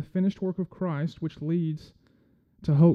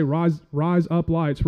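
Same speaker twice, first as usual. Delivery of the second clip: "Rise up lights" said louder as a quick phrase; real quick; 5 dB louder, much slower than usual. Shown as a demonstration. Telling the crowd what to say to an Aussie, real quick. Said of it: "real quick".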